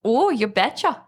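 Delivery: lightly put-on Canadian accent, sliding into Minnesotan; attempted Canadian accent. Shown as a demonstration. Cohost asked for Canadian, a light Minnesota-like accent. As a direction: try a Canadian voice that comes out Minnesota. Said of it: "that's like Minnesota".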